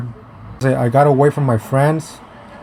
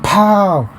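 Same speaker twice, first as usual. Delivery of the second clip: higher, punchy "pow"; imitated smack; 6 semitones higher than usual. Storyteller acting out hitting his ex, punchy imitated smack. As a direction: sound effect for a landed hit.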